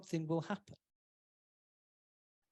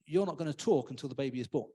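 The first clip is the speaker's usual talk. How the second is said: mildly annoyed; 5 semitones lower, faster than usual. Retold or imitated. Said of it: "gets mildly annoyed and goes".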